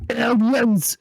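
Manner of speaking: dramatic movie-title voice; Sigourney Weaver. Retold or imitated. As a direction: announce it like a film trailer. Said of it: "It's me, Sigourney Weaver".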